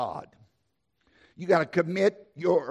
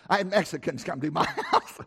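laughing; 2 semitones lower than usual. Real, not acted. Laughs at his own aside.

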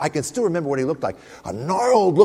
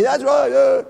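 mock enthusiastic agreement; 11 semitones higher, 6 dB louder, slower than usual. Audience agreeing at briefing.

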